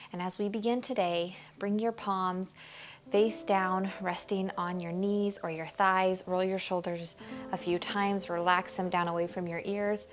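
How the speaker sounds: calm yoga teacher guiding the class; guided meditation. Acted. Teacher guides students into a seated pose, calm meditation voice. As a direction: ease them into the pose gently.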